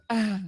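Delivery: short mock moan; imitated moan. Comic imitating the woman in bed, mock moan. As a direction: imitate a partner's moan briefly. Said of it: "and then she's moaning".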